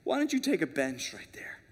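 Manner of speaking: mock show-off addressing God. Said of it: "so here's what we do".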